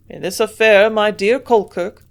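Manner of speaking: put-on a sudden confident outburst, German accent; burst of confidence. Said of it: "he exclaimed with a sudden burst of confidence".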